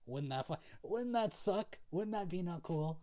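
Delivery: squirming disbelief. Real, not acted. Squirms imagining cutting own fingertips.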